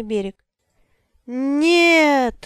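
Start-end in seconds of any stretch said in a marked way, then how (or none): 1.2-2.4 sharp anguished cry of no; shout. A narrator's reading. Father shouting no across the river, loud cry. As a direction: yell it out, higher and louder. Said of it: "закричал Зет".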